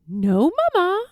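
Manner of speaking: put-on high, small child's voice; a girl answering her royal mother; little girl voice. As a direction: answer Mamma like a meek young girl.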